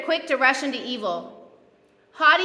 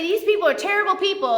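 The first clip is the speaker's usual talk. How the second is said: higher-pitched mock outrage; retold indignation; 5 semitones higher, faster than usual. Preacher retelling behind-the-back complaints, in higher mock outrage. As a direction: imitate yourself getting all mad. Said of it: "And I get all mad".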